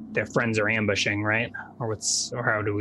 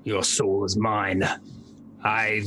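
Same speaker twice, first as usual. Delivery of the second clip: cold hissing layered whisper. Acted. Necromancer speaks to dying man.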